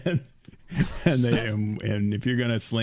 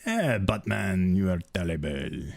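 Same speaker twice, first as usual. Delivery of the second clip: slow mock French villain; French accent; 3 semitones lower, slower than usual. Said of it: "French accent".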